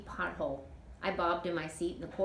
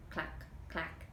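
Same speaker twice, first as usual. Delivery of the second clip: breathy clack, clack sound; soft clacking rings; whispered clack; 7 dB quieter than usual. A narrator's reading. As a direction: tap the rings out softly. Ring clacking on wheel.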